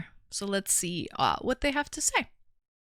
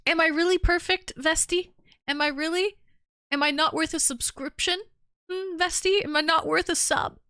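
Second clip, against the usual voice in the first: mock pleading; 6 semitones higher than usual. Begging streamer for subscription.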